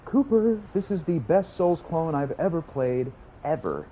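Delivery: high-pitched, drawn-out gushing praise; entertaining hype. Shown as a demonstration. Streamer repeating praise for later viewers, made entertaining and high. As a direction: sell it big, slow and high, for the stream. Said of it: "I'll try to make it entertaining".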